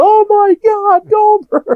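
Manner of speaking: very high-pitched, stretched-out, drawn-out screaming. Retelling how Sid found his crushed car: imitating Sid screaming. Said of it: "just starts screaming".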